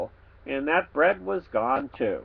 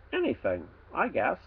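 muttered; 7 dB quieter than usual. Acted. Muttered aside.

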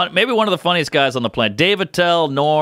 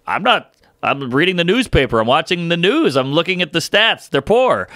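imitating Norm; 6 semitones higher than usual. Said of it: "He's like".

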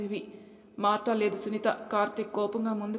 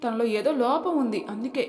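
high, mocking scoff; scornful mother; 4 semitones higher, 4 dB louder than usual. Mother-in-law mocks the daughter-in-law, scornful. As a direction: scoff at the idea of work.

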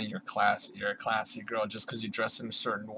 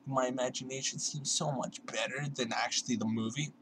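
mock wistful reader; 2 semitones higher, 4 dB quieter than usual. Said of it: "Instead of just like".

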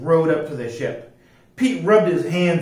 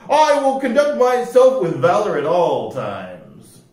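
high, prim and proper voice; un-piratelike rascal; 6 semitones higher, 7 dB louder than usual. A narrator's reading. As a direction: explain it very properly, pitched high. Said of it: "said the rascal".

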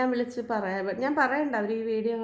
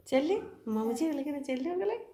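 higher, softer sing-song coaxing; 5 semitones higher, 3 dB quieter than usual. Real, not acted. Mother coaxing her daughter to go to grandma, high soft sing-song. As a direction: gently urge the little one to go.

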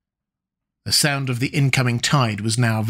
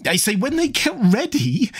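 put-on old man raising voice; 11 semitones higher than usual. A narrator's reading. Repeated phrase, louder.

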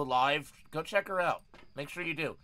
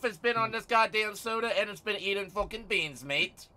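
mock British accent; 3 semitones higher, 4 dB louder than usual. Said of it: "Don't do the British accent".

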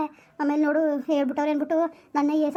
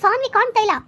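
higher and louder, breathless with worry; alarmed; 8 semitones higher, 5 dB louder than usual. Acted. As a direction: blurt out the bad news in fear. Wife reports missing girl. (ಆತಂಕದಿಂದ ಜೋರಾಗಿ)

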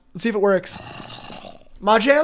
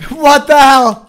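laughing disbelief; 4 semitones higher, 7 dB louder, much slower than usual. Real, not acted. Laughing at the intruder.

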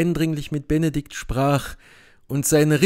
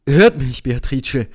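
pleading; 4 dB louder than usual. Acted. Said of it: "flehte Benedikt".

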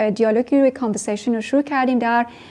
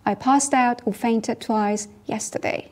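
slow model sentence; much slower than usual. Shown as a demonstration. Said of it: "model sentence".

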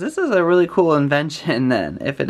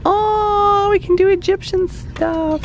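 much higher, louder squeal; excited squeal; 4 dB louder than usual. Real, not acted. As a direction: jump up with excitement. Excited by scarab idea.

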